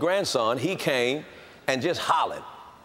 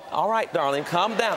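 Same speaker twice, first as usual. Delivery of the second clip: mock soothing; 2 semitones higher than usual. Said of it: "I'm supposed to sit, talk".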